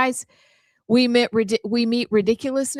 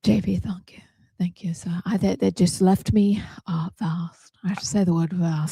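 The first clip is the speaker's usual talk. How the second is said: put-on modest thanks in a British accent; 2 semitones lower than usual. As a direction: stay in British character. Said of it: "the right accent".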